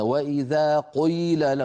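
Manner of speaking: قيل with a heavy, overfilled قي; overemphasized qi. Shown as a demonstration. A teacher imitating an overdone Levantine قي. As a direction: exaggerate the قي in قيل. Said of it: "إيش هذه قي".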